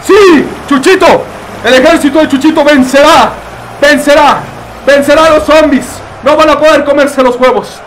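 loud, high battle cheer for Chuchito; rally the army like a war cry; excited cheer. Real, not acted. Gamer cheering his chicken army, excited shout.

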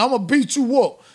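high, loud mock threat, as if mimicking a bully; imitating a threat. Mimicking the man threatening the passenger, high and loud mock. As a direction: sneer it out in a mocking voice. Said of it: "look how he came at this dude".

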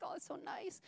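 a soft whisper of wonder. Retold or imitated. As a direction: breathe it out in a whisper.

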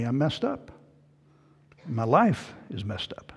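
soft, hurt murmur to God; quiet, disappointed prayer; quiet complaint. Acted. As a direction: let it sink to a wounded hush. Voicing a believer's complaint to God.

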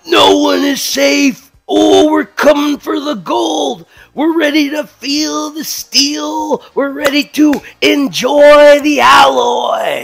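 slow, shouted wrestler promo; wrestling promo. Acted. Wrestling promo trash talk.

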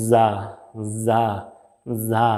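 যা starting with a buzz like the th in this; Arabic dhal in যা, voiced and buzzing; buzzing dh sound. Shown as a demonstration. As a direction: let the tongue buzz on the teeth before যা. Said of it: "সেই পোকাটার মতো একটু sound আসবে".

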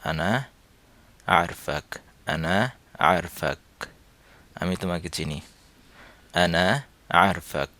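আরফাক clipped the Saudi way, as আর-ফাক; Saudi pronunciation. Shown as a demonstration. Teacher repeating the Saudi form for students, Saudi pronunciation. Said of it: "আর Saudi ডায়ালেক্টে".

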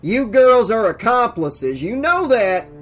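loud, threatening lawman; loud accusation. Acted. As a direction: accuse them loudly, pitch climbing. Sheriff loudly threatening the girls.

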